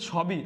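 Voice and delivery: "ছবি" with open aw after ছ; literal spelling pronunciation. Shown as a demonstration. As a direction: say "ছবি" as chhaw-bi. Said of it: "আমরা কি বলি?".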